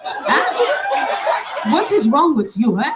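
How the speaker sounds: lowering into a mock plea, laughing through it; voicing the suitor's voice note. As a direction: whine like a hurt lover, half laughing. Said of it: "This is the voice note".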